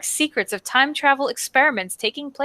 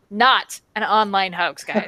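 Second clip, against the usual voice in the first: sarcastic. Acted. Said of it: "sarcastic repeat to the chat".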